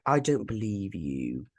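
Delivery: slow, breath-only whisper; whispered disbelief. Retold or imitated. Retelling a show character's reply, in a slow mock-menacing whisper. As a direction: whisper it slowly, drawing out the words. Retelling a villain's sinister refusal.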